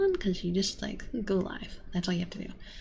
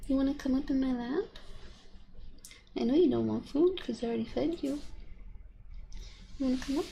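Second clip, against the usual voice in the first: coaxing cat; 4 semitones higher, 3 dB quieter, faster than usual. Real, not acted.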